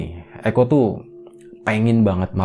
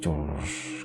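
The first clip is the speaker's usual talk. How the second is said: imitated water hiss; 4 semitones lower, 11 dB quieter than usual. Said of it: "Suaranya tuh kenceng banget".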